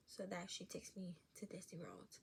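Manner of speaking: hushed, secret-wish whisper. Real, not acted. Kid secretly hoping for the Disney trip, whispered. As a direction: breathe it like a secret.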